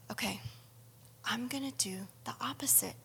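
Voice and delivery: hushed self-promise; whisper. Real, not acted. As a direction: whisper the resolution to yourself. Resolving under her breath.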